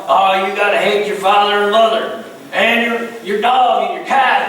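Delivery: mock preacher laying down the law; hammed-up pulpit demand, piling on the list; ranting preacher. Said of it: "the preacher starts preaching on that one".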